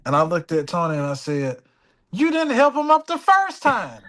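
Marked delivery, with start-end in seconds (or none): 2.1-4.0 laughing retort. Retold or imitated.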